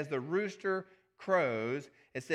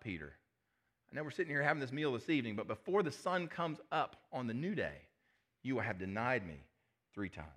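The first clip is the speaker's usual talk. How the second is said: gentle. Acted. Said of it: "Jesus responded very gently".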